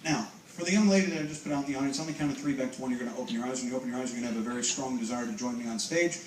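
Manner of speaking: low, soft hypnotist patter; hypnotic suggestion. Real, not acted. Hypnotist to a young lady in the audience, hypnotic suggestion. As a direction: plant the suggestion quietly and low.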